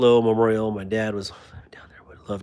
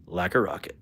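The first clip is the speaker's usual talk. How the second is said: breathy whispered like a rocket; whispered catchphrase; 4 semitones lower, 6 dB quieter than usual. Shown as a demonstration. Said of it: "If it actually had a good action".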